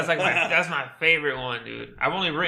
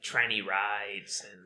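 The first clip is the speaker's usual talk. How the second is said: whispering; 7 semitones lower, 6 dB quieter, much slower than usual. Real, not acted. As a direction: drop to a whisper on the touchy words. Saying a touchy phrase.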